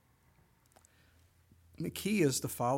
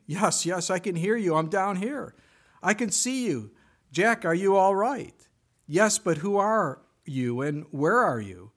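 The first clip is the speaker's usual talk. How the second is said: loud, high anxious calls; shouting up from the branch; desperate calling up; 5 semitones higher, 7 dB louder than usual. Retold or imitated. Jack hanging from a cliff calls up, loud and anxious.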